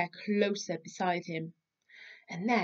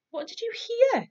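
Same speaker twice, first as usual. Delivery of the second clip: Big Bear asking; 6 dB louder than usual. Acted. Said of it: "said Big Bear".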